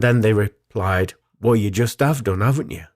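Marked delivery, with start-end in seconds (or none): 1.4-2.9 lightly imitated Norfolk accent. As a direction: retort with a hint of Norfolk. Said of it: "in the local Norfolk accent".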